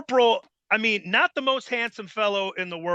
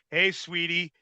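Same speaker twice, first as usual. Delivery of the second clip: smooth; 2 semitones lower than usual. Retold or imitated. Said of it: "Corp, you know, would be like".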